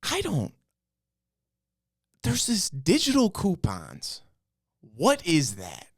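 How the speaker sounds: put-on high-pitched, halting old customer voice; baffled old man. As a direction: imitate a confused old man, starting high. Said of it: "Then there's this old guy".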